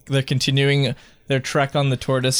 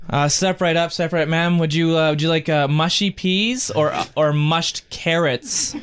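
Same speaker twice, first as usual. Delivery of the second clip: carnival vendor voice; 3 semitones higher than usual. Acted. Concession vendor calling out.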